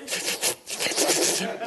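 mock stifled sob; holding back tears. Student given money for bills, mock holding back tears. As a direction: act out choking back tears, no voice. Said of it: "I'm holding back the tears".

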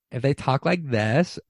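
slow, drawn-out uptalk rising at the end; mock valley-girl talk. Shown as a demonstration. Mocking how some girls talk, in slow exaggerated uptalk. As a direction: parody an affected way of talking, dragging each word.

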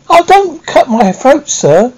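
high, slow frightened plea; pleading in terror. A narrator's reading. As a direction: beg for your life. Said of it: "I pleaded in terror".

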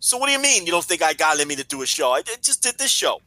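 hoarse, strained and rasping; lost voice. Real, not acted. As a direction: push words out through a wrecked voice. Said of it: "I have no voice".

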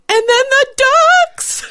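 high, loud, slow wailing cry; imitating mom sob-laughing. Mom sobbing about the ducks, high wail. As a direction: wail it like a hysterical mother. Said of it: "and she's like".

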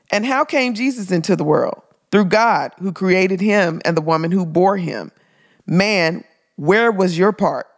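lightly declaimed historic women's rights speech; pointed, emphatic quotation from an orator; oratorical speech reading. Acted. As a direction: read it like a rousing speech, lifting the rhetorical questions. Reads a famous speech aloud.

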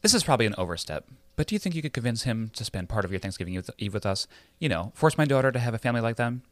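high, breathy society mother; sexy Lily voice. Acted. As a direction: play Lily as sultry as you can. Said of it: "try and feel as sexy as possible".

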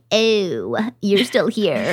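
understated acted "oh, it's you"; mock recognition. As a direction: lightly act out finding an unwelcome guest. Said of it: "dig a little deeper. And I'm like".

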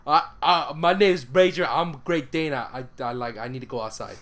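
lightly voiced talking dog; dog's voice. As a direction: play the dog introducing itself, lightly. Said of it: "that's Christian's dog's voice".

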